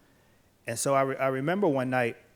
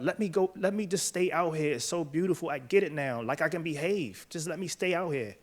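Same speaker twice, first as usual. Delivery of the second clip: pleading prisoner; 3 semitones higher than usual. Retold or imitated. Prisoner begging the guard to stay outside, mild pleading. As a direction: beg to be let stay, lightly voiced. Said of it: "the prisoner begins to beg the guard".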